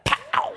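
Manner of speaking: sharp high "pow" like something hitting a wall; mock impact pow. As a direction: pop it out as a playful impact noise. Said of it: "I heard that one hit the wall".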